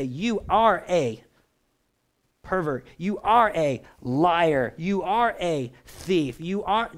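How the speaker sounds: slow, heavy accusations, each "are" leaned on; accusing voice. Retold or imitated. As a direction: condemn them word by word, slowly. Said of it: "he doesn't do that".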